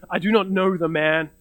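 plain, direct acted denial. Peter answering the servant girl's accusation, direct denial. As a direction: deny it straight out, at an even pace. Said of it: "he says directly".

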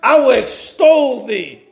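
slow, deliberate reading of the verse; read real slow. Shown as a demonstration. Preacher rereading scripture to the congregation, real slow. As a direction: lean on each word, slowly. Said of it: "let me read that again real slow".

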